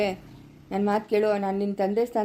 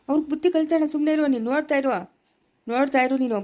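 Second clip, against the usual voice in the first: forceful vow; 5 semitones higher than usual. Acted. Elder vows to teach them.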